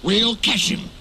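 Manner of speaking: out of breath, panting the words; puffing. A narrator's reading. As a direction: puff it out like a tired engine. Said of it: "puffed Edward".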